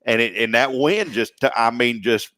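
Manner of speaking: country storytelling with stretched words; hammed-up country accent. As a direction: spin a country yarn, drawing out words. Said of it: "I threw in a little Fargo with country".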